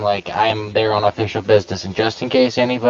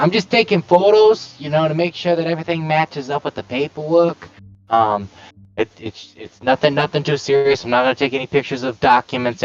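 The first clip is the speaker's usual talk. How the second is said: bad New York accent, pitched up; a lightly done New York tough guy; 2 semitones higher than usual. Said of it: "in his bad New York accent".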